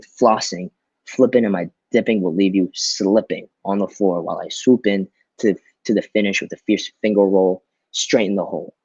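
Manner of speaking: lively rhythmic read with punched words; expressive poem reading. Shown as a demonstration. Teacher reading a poem aloud to students, expressive and rhythmic. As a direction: perform the poem with bounce and emphasis. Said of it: "So I'm gonna read this for y'all so you understand how it's supposed to sound".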